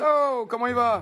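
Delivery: high, drawn-out hello to a pal; delighted, stretched-out welcome; effusive greeting. Acted. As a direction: greet your buddy with a big rising whoop. Clothes greet arriving friend.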